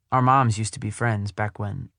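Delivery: mild trailing off at the end. Acted. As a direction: let "back when" hang unfinished. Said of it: "She trails off".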